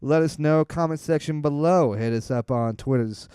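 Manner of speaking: upbeat host calling out to listeners; podcast host outro. Acted.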